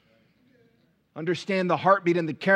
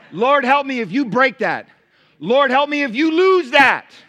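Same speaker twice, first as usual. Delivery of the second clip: louder, mock-exasperated mother; exasperated mama's prayer; 4 semitones higher, 5 dB louder than usual. Exasperated mother prays about her kids, mock-scolding. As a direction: play a fed-up mom muttering to heaven. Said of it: "That's the mama's prayer".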